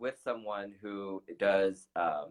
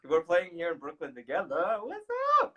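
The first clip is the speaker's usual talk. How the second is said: put-on Yorkshire accent; 5 semitones higher than usual. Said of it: "I'm doing her Yorkshire accent".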